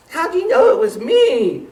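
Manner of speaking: high, loud mock howl; howling turkey. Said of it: "howled Turkey".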